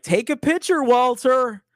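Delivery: a hint of a doting family member; mock proud parent. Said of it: "they're like".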